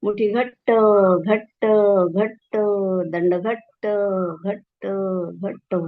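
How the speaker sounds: cues spoken on a held breath; tense, speaking while holding breath. Acted. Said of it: "श्वास धरून ठेवा".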